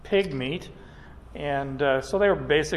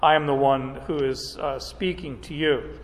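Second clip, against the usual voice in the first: voice of God; 2 semitones lower than usual. Acted. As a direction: speak as God announcing himself, unhurried. Preacher voicing God's own words.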